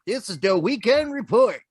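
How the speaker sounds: put-on old-timey news reporter voice; 1950s newsreel announcer. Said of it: "that was my nineteen fifties, uh, news reporter voice".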